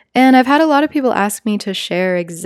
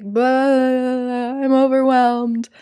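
higher, whiny blah of overwhelm; imitating herself venting, a touch higher; mock venting; 5 semitones higher, much slower than usual. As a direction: vent it like a fed-up kid. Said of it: "just like, venting".

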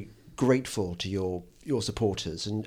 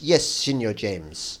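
put-on Spanish accent; 3 semitones lower, 4 dB quieter, much slower than usual. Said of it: "I think she's Spanish".

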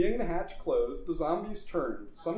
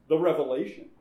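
impatient; 6 dB louder, faster than usual. Acted. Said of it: "continued the doctor impatiently".

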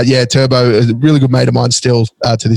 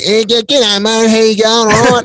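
cartoonish, high Australian bogan; high-pitched bogan accent; 9 semitones higher than usual. Shown as a demonstration. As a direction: pitch it way up like a stereotypical Aussie. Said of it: "it's generally high pitched".

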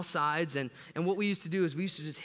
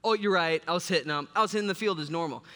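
caught out; 2 semitones higher, 5 dB louder than usual. Retold or imitated. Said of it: "And I'm like".

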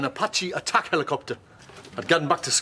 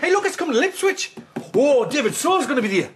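higher, hammed-up advert announcer; mock trailer voice; 7 semitones higher than usual. Plugging Truckfest in Ipswich, hammed-up advert voice. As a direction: sell it like a cheesy ad.

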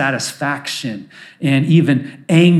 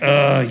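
weary groan; 2 semitones lower than usual. Acted. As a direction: groan as if worn out. Groan acted for tough days.

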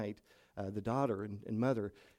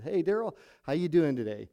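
cheery greeting; 5 semitones higher, 7 dB louder than usual. Retold or imitated. Pastor cheerfully greets sick man.

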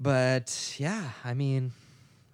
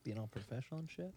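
whisper; 13 dB quieter than usual. Real, not acted. Teasing aside, whispered.

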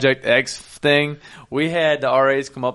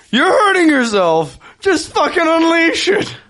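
loud high slow exhortation; high, slow, pleading yell; 13 semitones higher, 4 dB louder than usual. Retold or imitated. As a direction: beg her to let it out, stretched and shrill-high. Urging friend to swear.

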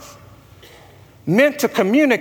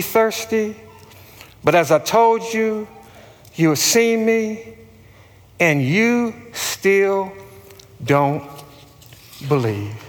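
unhurried scripture reading with long pauses; measured, reverent reading, letting phrases rest; slow reading; 3 semitones lower than usual. Real, not acted. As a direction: read it slowly so it settles in. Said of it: "I'm gonna read it slow".

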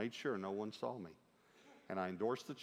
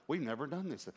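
mildly excited, higher voice; a touch of excited disbelief; retold excitement; 4 semitones higher than usual. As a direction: sound amazed, as if quoting someone thrilled. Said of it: "He was excited".

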